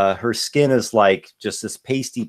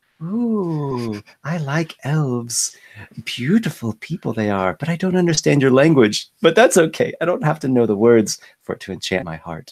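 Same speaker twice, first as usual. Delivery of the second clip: flirty, flirtatious tone, pitched higher; 4 semitones higher than usual. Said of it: "she flirts with you a little bit".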